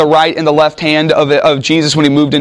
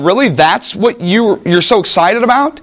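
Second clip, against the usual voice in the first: incredulous; 3 semitones higher than usual. Acted. Preacher voicing servants puzzled at Jesus' excitement. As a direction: ask it like it's no big deal. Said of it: "they're going".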